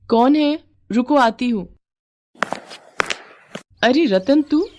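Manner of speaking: surprised wife. Acted. Wife answers door.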